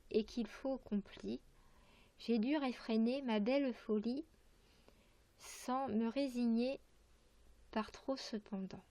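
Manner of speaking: measured verse reading with pauses between phrases; poem recitation. Acted. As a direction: recite line by line, carefully articulated. Reads a poem aloud. (lecture de poème, vers par vers)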